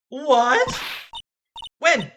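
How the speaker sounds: breathless barrage of questions; frantic questions. Acted. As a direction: pepper him with questions in a panic.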